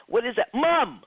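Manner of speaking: high, loud burst of recognition; surprised realization. Retold or imitated. Retelling her vision, she cries out in surprise. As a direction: gasp out the answer as it hits.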